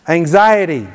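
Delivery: mild, firm command in prayer; like you mean it. Shown as a demonstration. Preacher leads church against anxiety, like she means it. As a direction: say it with conviction, like a declaration. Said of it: "say it like you mean it".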